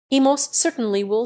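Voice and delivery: firm, understated emphasis; emphatic. A narrator's reading. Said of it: "said Tarzan emphatically".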